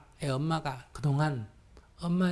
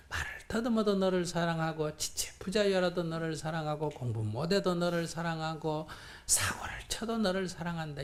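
soft tender assurance; 4 dB quieter than usual. Pretend. Voicing a mother's unconditional love.

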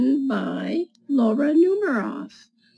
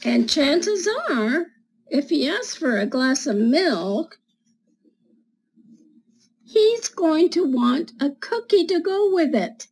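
put-on reading to children; 2 semitones higher than usual. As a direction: read it like storytime for little kids. Reads picture book to children.

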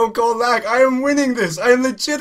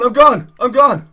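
excited yell; 3 semitones higher, 8 dB louder than usual. Real, not acted. Sprint breaking away.

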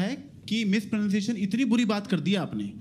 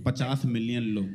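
defiant Americans voice; 8 semitones lower than usual. Retold or imitated. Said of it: "तो Americans कहते हैं".

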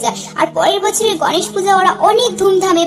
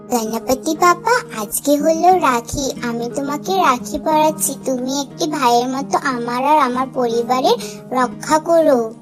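put-on young daughter praying; 3 semitones lower, 4 dB quieter than usual. Child Piyu prays to Ganpati.

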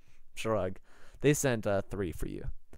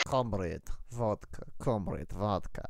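low, quiet Russian-accent warm-up words; Russian accent, said low to find it; 3 semitones lower, 5 dB quieter than usual. Shown as a demonstration. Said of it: "I am in the Russian accent".

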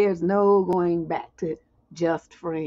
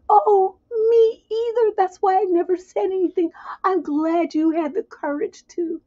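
put-on gushing boyfriend; 9 semitones higher than usual. Boyfriend answering the confession in a high swoon. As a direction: melt with relief. Voicing the man's reply.

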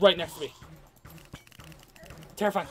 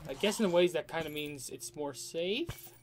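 ordinary delivery

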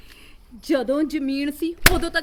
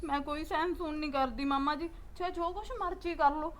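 softer, breaking into tears; tearful defiance; 3 semitones lower, 6 dB quieter than usual. Acted. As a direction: hold back a sob as you refuse him. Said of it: "ਕਾਹਤੋਂ ਰੋ ਰਹੀ ਹੈ?".

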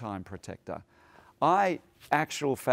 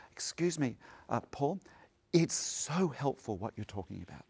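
soft, quieter, sincere thanks; grateful thanks; 5 dB quieter than usual. Retold or imitated. Participants at morning tea thanking Paul, soft sincere gratitude. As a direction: speak gently and appreciatively, one to one.

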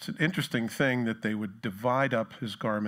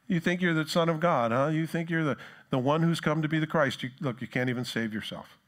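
sneering taunt; 4 semitones higher than usual. Acted. Rulers to Jesus on the cross, sneering and taunting. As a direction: needle him like a heckler, starting high. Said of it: "they're sneering at him and taunting him".

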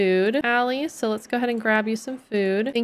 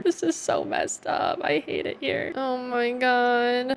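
slow, hushed whisper of dismay; cringing whispered aside; horrified whisper; 3 semitones higher, 5 dB quieter, slower than usual. Real, not acted. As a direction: whisper it like you can't bear to watch. Kids on balcony during woohoo.

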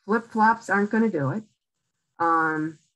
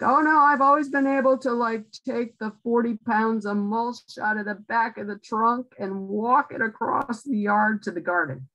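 lightly hammed-up "oh no, I can still do it"; stubborn protest; 2 semitones higher than usual. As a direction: brush the advice off in a hurry. Quoting a stubborn older patient.

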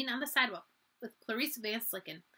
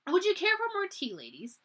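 polite but cold; 8 semitones higher, 4 dB louder than usual. Acted. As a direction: offer the tea to the gossiping guests, icily polite. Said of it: "in a voice that was more polite than friendly".

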